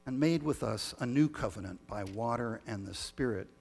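measured, solemn prayer voice; liturgical prayer. Acted. Leads the communion prayer.

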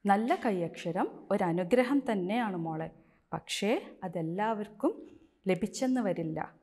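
slow, tender reassurance from mother; gentle comfort. Acted. Mother gently reassuring her crying daughter, slow and tender. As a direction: soothe a crying child, slowly.

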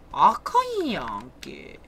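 slow, drawn-out fake Kansai "あかんやんけ"; fake Kansai dialect. Real, not acted. Player grumbling at a teammate in fake Kansai dialect. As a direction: slip into a mock Kansai accent, slowly. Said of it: "エセ関西弁っぽくなっちゃった".

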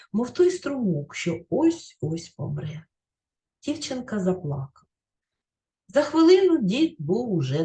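put-on expressive reading of a children's tale aloud; gentle storyteller reading to a class; story narration. A narrator's reading. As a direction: read it like a storybook for pupils. Teacher reads story aloud.

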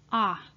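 "ah" as a single clear vowel; isolated "ah" vowel. Shown as a demonstration. Teacher isolates the OU sound, a clear "ah". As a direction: sound out "ah" on its own. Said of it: "O and U together are pronounced as ah".

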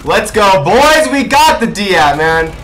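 real gamer hype after the win; frat bro. Real, not acted. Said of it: "I'm just hyped".

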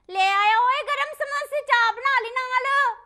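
loud, high, drawn-out vendor-style holler; calling out. Acted. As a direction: holler the hot samosas across the room, slowly. Calling out that samosas have arrived. (ਉੱਚੀ ਲੰਮੀ ਹਾਕ ਮਾਰ ਕੇ)

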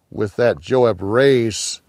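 ordinary delivery, nothing marked

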